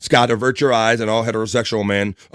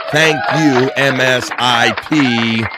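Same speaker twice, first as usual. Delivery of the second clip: big drawn-out thank you, louder; hearty, louder thanks; loud slow thanks; 3 semitones higher, 4 dB louder, much slower than usual. Real, not acted. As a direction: boom it out slowly with gratitude. Enthusiastic thanks.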